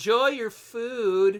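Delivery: very condescending tone. Narrating a game, voicing a character who pushes the player on, condescending tone. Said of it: "in a very condescending tone".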